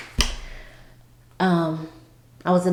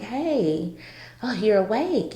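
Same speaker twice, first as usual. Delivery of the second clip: higher, cheery retold greeting; happy nurse; 4 semitones higher than usual. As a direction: lightly imitate an upbeat nurse. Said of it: "she was like, you know, happy".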